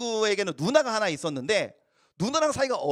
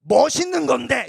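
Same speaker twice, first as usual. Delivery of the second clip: put-on bragging kid; 6 semitones higher, 6 dB louder than usual. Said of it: "이렇게 얘기하는 거예요".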